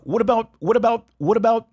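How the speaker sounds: "what about" run together fast and high; linked what about. Shown as a demonstration. Teacher demonstrating linked "what about". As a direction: blend "what about" into one word. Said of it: "Ele junta tudo".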